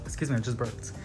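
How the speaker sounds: ordinary talk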